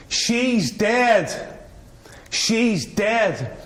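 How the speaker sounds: high yelled cry, repeated; shout. Retold or imitated. Man carried off the plane by police, high shouted cry. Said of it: "he's shouting".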